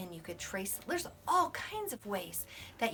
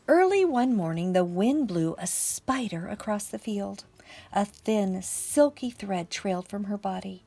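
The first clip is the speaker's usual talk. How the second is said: louder, projected picture-book reading; story narration; 7 dB louder than usual. A narrator's reading. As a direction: read aloud to a class of little children. Reads picture book aloud.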